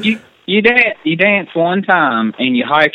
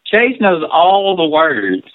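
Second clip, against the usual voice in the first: slow dramatic reveal; 3 semitones higher, slower than usual. Shown as a demonstration. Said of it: "you're just gonna blow your mind".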